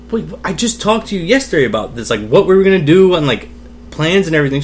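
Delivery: high, insistent retold objection; incredulous protest. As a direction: object like a kid who can't believe it. Retold kid disbelieving mother's denial.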